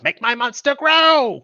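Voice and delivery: booming, slow villain goddess voice; Tiamat voice. Pretend. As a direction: roar it out like a dragon queen. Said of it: "you just hear the voice of Tiamat".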